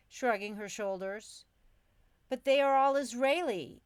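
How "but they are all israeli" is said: high, loud, worried squeak; a squeaky rush of worry; anxious squeak. A narrator's reading. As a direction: blurt it out in a nervous squeak. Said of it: "I squeaked, my voice tinged with anxiety".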